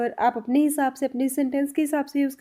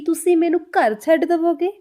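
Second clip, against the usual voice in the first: higher and louder, emphatic; teacher shows Punjabi is spoken louder; forceful Punjabi; 4 semitones higher, 4 dB louder than usual. Shown as a demonstration. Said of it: "Punjabi ... थोड़ा ज़ोर से बोली जाती है".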